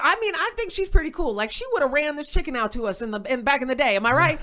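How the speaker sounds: loud, high emcee shout-out; host hyping the crowd. Retold or imitated. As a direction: work the room like a club host. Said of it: "he goes".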